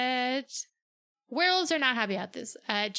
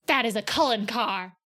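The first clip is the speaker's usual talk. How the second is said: louder, with "That" punched hard; thrilled to spot "That is a Cullen car!"; girl recognizing her ex's family car; excited recognition; 4 dB louder than usual. Retold or imitated. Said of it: "And then Bella's like".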